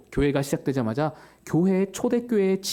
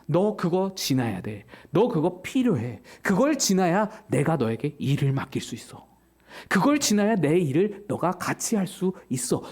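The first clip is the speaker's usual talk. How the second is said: gentle Jesus voice; 3 semitones lower than usual. Acted. Voicing Jesus to Peter.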